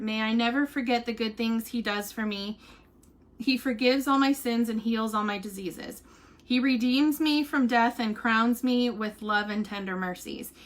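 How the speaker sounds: even, measured psalm reading; devotional reading. Acted. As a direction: read scripture aloud simply and reverently. Reads a psalm aloud.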